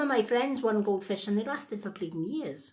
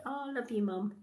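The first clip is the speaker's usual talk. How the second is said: sweet-talking mum; 5 semitones higher, 5 dB quieter than usual. Retold or imitated. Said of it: "when she was on my side".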